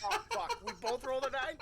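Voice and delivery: real high-pitched, laughing disbelief; laughing dismay. Real, not acted. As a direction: exclaim through laughter at rotten luck. Dismayed laughter at bad roll.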